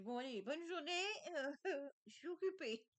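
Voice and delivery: giggling through the words; laughing. Retold or imitated. Telling viewers about the pushy kid, laughing. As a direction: laugh as you wave him off. Laughing while retelling the brush-off.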